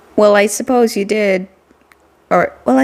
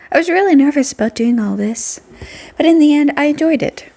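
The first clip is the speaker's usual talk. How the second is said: put-on cheerful girl voice; 5 semitones higher than usual.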